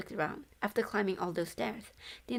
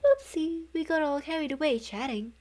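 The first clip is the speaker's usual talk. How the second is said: a higher, louder ghost voice; sheepish ghost caught chatting; 7 semitones higher, 5 dB louder than usual. A narrator's reading. Ghost apologizing to Yuya in a higher, louder voice. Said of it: "one of them said".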